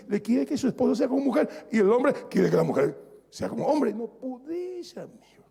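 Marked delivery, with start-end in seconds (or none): 3.9-5.4 aparte suave. Acted. Aparte al marido, consejo íntimo.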